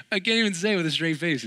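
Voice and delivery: can't keep a straight face; laughing. Real, not acted. Preacher laughing about his losing teams.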